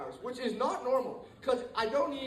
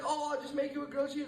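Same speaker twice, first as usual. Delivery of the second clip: higher-pitched, easygoing grandma impersonation; unconcerned grandma; 5 semitones higher than usual. Retold or imitated. Grandma reassuring her grandchild about the edibles, unconcerned. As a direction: wave it off like an untroubled grandma. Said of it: "She wasn't even, like, concerned".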